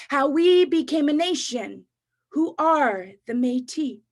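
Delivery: rhythmic spoken-word poem; spoken-word poetry performance; poem recital. Acted. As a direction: recite it with a steady rhyming beat.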